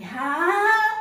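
"Rato" with a hard strong R at the start. Shown as a demonstration. Teacher contrasts the strong R in "Rato", firm. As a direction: punch the opening R in "Rato". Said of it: "Não, porque o R é forte".

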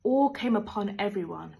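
whispered, full of awe; hushed whisper. Acted. Narrator telling how awe came upon everyone, whispered. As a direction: breathe the words in wonder.

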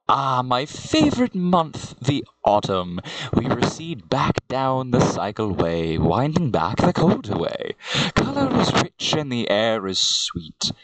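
measured poetry reading; self-styled poet reading aloud; poem recitation. Acted. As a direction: recite it as rhyming verse, line by line. Recites autumn verse.

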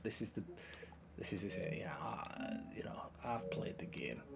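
hushed whisper to himself. Real, not acted. Gamer whispering to himself over the match. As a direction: drop to a whisper mid-game. Whispered aside while playing.

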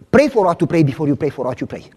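rattled off fast as a tongue twister; fast tongue-twister delivery; quick first run. Shown as a demonstration. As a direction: fire it off at speed. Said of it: "I'm gonna say it slow now".

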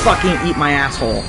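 loud, bitter yell; angry yell. Real, not acted. Gamer yelling at an enemy that got him, angry yell. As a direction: spit the insult out in anger. Player raging at game enemy.

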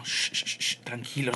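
soft unvoiced shushing, then a hushed word; calm the crowd with a shush; hushing. Real, not acted. Streamer shushing his viewers, soft and hushed.

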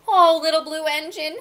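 loud, high plea; storybook toys calling for help; crying out. A narrator's reading. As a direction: call out imploringly. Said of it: "cried the dolls and toys".

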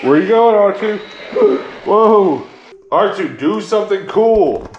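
loud, high-pitched excited call to a toy robot; high, loud and playful. Real, not acted. Calling out to the moving robot.

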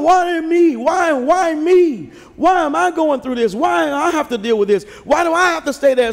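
half-hammed complaint to God; mock whining. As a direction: pout out a self-pitying "why me" to God. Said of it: "Instead of asking God".

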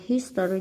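History with the first syllable stressed; History, weight up front on HIS. Shown as a demonstration. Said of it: "nhấn âm một".

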